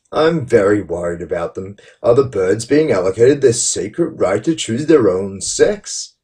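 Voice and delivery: theatrical mock-earnest reading with big pitch swings; lightly hammed-up sarcastic contrition; cheeky sarcastic tone. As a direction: read it with cheeky, exaggerated sincerity. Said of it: "I'll put a twist on it".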